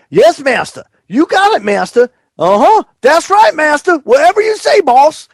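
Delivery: high, eager bowing servant voice; servile yes-man. Pretend. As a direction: grovel like an obedient servant. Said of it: "they should be saying".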